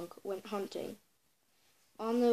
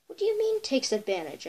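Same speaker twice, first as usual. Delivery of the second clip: much higher, startled question; surprised chipmunk; 4 semitones higher than usual. Acted. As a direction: squeak it out in surprise. Chipmunk asks, startled by fox.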